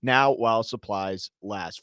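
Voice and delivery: upbeat radio ad read. Acted. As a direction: sell it like a radio spot. Reads a sponsored deal ad.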